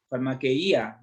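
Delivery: farmaqueia said far-ma-ke-Í-a with the stress on the i; stressed farmaqueía. Shown as a demonstration. Preacher reading the Greek word to the congregation, stress on the i. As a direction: put the weight on the i of farmaqueia, four clear syllables ending -Í-a. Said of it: "con acento en la I".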